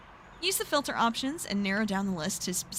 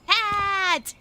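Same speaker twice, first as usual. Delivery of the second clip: excited exclamation; 10 semitones higher, 5 dB louder than usual. Real, not acted. Excited at finding the hat.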